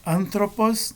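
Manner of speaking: "Anthropos" stressed on its first syllable, AN; antepenultimate stress. Shown as a demonstration. Teacher giving Greek accent examples, "Anthropos" stressed on AN. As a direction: hit AN in "Anthropos". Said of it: "antepenúltima sílaba".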